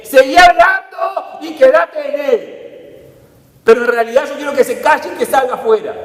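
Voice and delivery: high, loud, hammed-up ambiguous order; mock mixed message. Preacher mocking an ambiguous Jesus, high and loud. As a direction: overplay a confusing command. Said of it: "fue en doble sentido".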